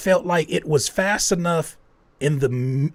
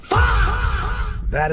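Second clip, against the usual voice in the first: high drawn-out shout; 4 dB louder than usual. Pretend. Welcoming the singer home, long high shout. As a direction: stretch it very slow and high.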